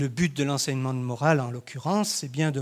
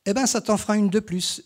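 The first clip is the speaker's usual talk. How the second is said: réplique moqueuse, nettement plus haute et plus forte; moquerie; 7 semitones higher, 5 dB louder than usual. Acted. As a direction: se moquer de son camarade. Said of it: "en imitant la démarche lourde". (Damien raille Fabien devant les autres, ton moqueur)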